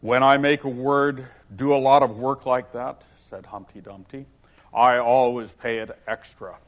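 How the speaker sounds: hearty, self-pleased Humpty voice; gaily. Acted. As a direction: boom it out cheerfully as a pompous egg. Humpty voice held.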